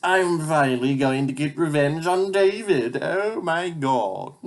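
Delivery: lightly voiced cartoon villain; gloating villain. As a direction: savor the coming revenge. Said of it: "Scratchel say".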